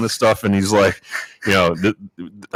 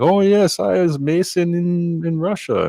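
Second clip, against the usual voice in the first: put-on thick Russian accent; 14 semitones higher than usual. Stranger claiming he was a Mason back in Russia, in a high imitated Russian accent. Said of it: "he's got a very thick Russian accent".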